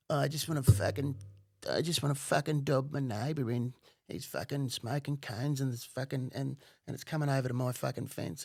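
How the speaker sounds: lightly voiced whining informant; mock dweeby caller. Caller dobbing in his neighbour, mock dweeby voice. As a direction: imitate a petty complainer, a touch of dweeb. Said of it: "some fucking dweeby li-, sounding little fuck".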